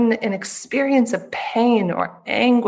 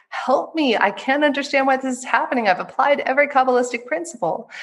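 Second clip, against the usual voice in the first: higher, pleading plea for help; 6 semitones higher than usual. Retold or imitated. Student begging her teacher for help, higher pleading. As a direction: beg the teacher, pitched up. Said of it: "she says".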